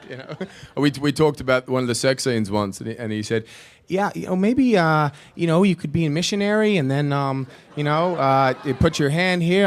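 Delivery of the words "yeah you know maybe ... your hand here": much higher and louder, a hesitant nice-guy director; Ron Howard voice. Retold or imitated. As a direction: play the kind director dodging a no, pitched up high and loud. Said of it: "two Niki Laudas and one Ron Howard".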